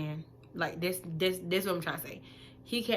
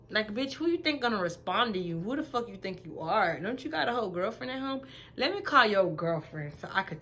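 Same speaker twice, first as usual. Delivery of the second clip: higher, sassy voice calling him out; sassy clapback; 3 semitones higher than usual. Retold or imitated. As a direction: read him like he's right there. Venting at midnight texter.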